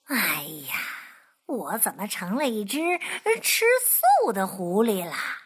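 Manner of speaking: low muttered fox grumble; fox talking to himself. Acted. Fox grumbling to himself, low and rueful. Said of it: "他自言自语地说".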